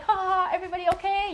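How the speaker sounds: high, quick laughing check-in; mock laugh. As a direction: laugh it off brightly after tripping. Laughing off a fall on stage.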